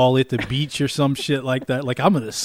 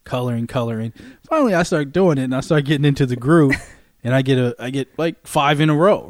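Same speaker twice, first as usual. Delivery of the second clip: ordinary talk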